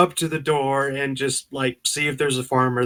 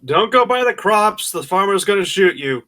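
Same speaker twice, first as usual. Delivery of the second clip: urgent warning; 5 semitones higher than usual. Acted. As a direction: warn him off the crops, urgently. Player warns companion character.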